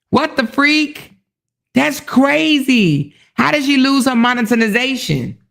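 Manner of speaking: slow, high disbelief; what the freak, slowed right down; shocked. Real, not acted. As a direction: drag it out in disbelief. Reacting to shocking news.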